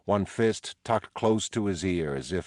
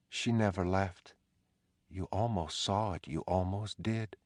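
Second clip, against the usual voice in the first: eerie wife's voice; 3 semitones higher, 4 dB quieter than usual. Acted. Dolores's ghost voiced by narrator.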